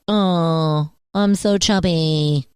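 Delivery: nasal whiny put-on voice. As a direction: whine it through the nose. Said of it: "I love it when you break out that voice".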